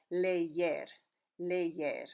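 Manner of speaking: "leyer" with a Y sound between the two E's; two E's joined by a Y glide in "leyer"; Spanish pronunciation. Shown as a demonstration. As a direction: say "leyer" as leh-YEHR. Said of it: "it's actually sounding like this".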